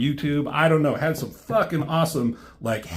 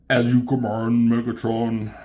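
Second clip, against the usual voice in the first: a hint of a lower, flat-toned robot servant; robotic Soundwave; 4 semitones lower than usual. Reading the comic, voicing Soundwave answering Megatron obediently. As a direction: answer the master like an obedient machine. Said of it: "Frank Weller did his voice".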